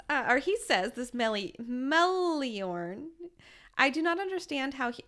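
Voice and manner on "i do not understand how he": flat robotic monotone, robot voice. Retold or imitated. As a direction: speak it like a stiff robot. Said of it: "saying this in a very robotic voice".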